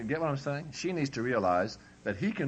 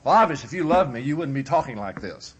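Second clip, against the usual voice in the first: put-on young wife pleading; 4 semitones higher, 7 dB louder than usual. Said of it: "She'll say".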